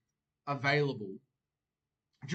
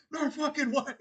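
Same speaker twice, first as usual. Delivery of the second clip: retold fight-night yell; 13 semitones higher, 4 dB louder than usual. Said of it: "lifted it up over my head, like".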